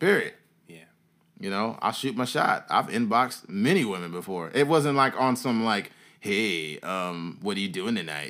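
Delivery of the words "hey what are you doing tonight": soft, creepy, leering come-on voice. Explaining how he did not message women, in a mock creeper voice. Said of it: "what is that voice?".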